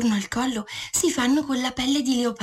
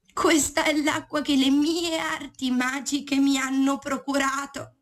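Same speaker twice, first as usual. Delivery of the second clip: high goat voice; 4 semitones higher than usual. Acted. Goat tricks lion.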